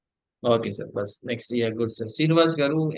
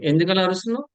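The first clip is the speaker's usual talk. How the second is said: raised, accusing question, pitched higher; a parent scolding a child who shouts; mock scolding; 5 semitones higher, faster than usual. Teacher acts a scolding question.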